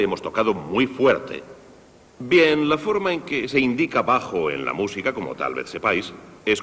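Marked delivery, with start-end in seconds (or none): 0.0-1.4 muy leaned on, falling tune; stress on muy. Shown as a demonstration. Teacher mocking players who overdo loudness, stressing muy. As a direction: punch muy to show overdoing it. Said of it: "donde dice fuerte".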